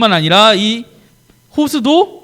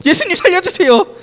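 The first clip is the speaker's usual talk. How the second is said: calling for rescue; 8 semitones higher than usual. Acted. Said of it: "엄마가 아니고".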